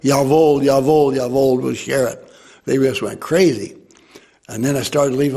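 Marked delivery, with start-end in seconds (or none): 0.0-2.3 put-on louder, eager German yeses from a crowd of kids; mock the children's eager reply. Kids eagerly agreeing to share.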